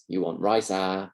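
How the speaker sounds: Singlish "you want rice, ah" with a particle instead of a rise; Singaporean English. Shown as a demonstration. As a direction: soften the question with "ah". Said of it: "in Singaporean English".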